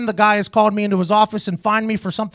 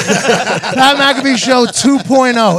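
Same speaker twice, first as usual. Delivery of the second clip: hyped announcement; 3 semitones higher, 5 dB louder, much slower than usual. Real, not acted. Hyped announcing new show.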